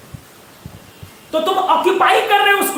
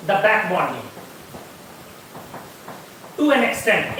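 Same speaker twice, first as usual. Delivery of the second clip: model exam answer; 6 semitones lower, 9 dB quieter, much slower than usual. Shown as a demonstration. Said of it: "आप क्या बोलोगे".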